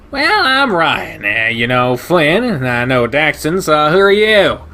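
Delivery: crank the pitch way up and bark it out with delight; brash shepherd guy. Acted. Ryan introducing himself.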